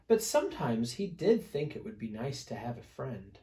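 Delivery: lively read-aloud storytelling; story narration. A narrator's reading. Teacher reading a picture book to children, lively storytelling.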